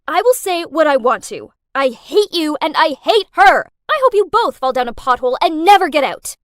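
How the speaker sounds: loud, furious shouting; hate-filled shout, rushing at the end; yelling. Acted. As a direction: yell it down the phone. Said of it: "so I yelled".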